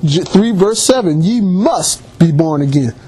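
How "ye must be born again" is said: slow "Ye must", then "be born again" falls lower; "must" held long, dropping away on "born again"; emphasis on MUST. Retold or imitated. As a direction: lean on "must" and slow the verse down. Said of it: "He put an emphasis on that".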